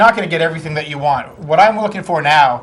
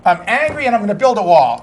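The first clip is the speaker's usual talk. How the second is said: higher, hammed-up angry ranting candidate; mock angry Trump; 6 semitones higher than usual. Host mocks Trump's campaign as an angry rant. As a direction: lampoon him as a blustering hothead.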